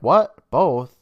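loud, high startled question; surprised. Retold or imitated. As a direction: blurt it out in shock. Ross surprised in retelling.

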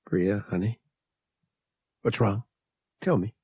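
soft, tender coaxing; quiet, caring concern; gentle. A narrator's reading. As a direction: ask her gently, leaving little pauses. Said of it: "slid an arm around her gently".

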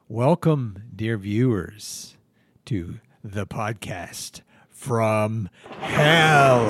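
slow, drawn-out spooky welcome; sinister host. Acted. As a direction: greet them like a demon host. Hosting from hell intro.

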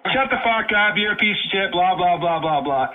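drown them out angrily; angry shouting. Real, not acted. Shouting down the caller.

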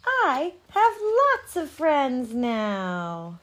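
loud echo. Acted. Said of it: "a voice answered him".

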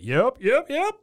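high-pitched, punchy cartoon yeps; imitated alley yeps. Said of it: "And then we get".

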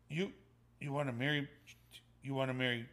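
quiet, halting, stunned repetition; soft stammering question with long pauses; lost for words. Retold or imitated. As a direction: imitate someone struggling to take it in. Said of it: "didn't even know what to say".

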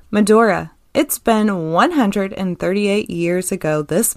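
steady, measured article read. Acted. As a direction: read it out like a news piece. Reads news article aloud.

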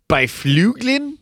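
"Byfuglien" slowly read as spelled, bye-FLOOG-lin; high, questioning stab at "Byfuglien", by the letters; "Byfuglien" sounded out as bye-floog-lin, unsure; baffled mispronunciation. Real, not acted. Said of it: "how horribly his name is spelled".

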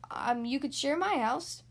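slow, slightly hesitant offer; lightly voiced slow tortoise. Tortoise offering his house to Rabbit, mildly hesitant.

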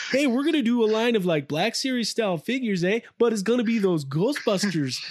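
hammed-up Canadian accent; lightly put-on Canadian accent. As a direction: pitch a toy line like a mock Canadian. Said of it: "I'll just do my Canadian voice".

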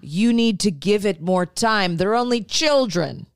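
lightly mocked reasoning dad; a hint of placating father, lifting at the end. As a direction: imitate a dad explaining it away. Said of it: "I love your dad voice".

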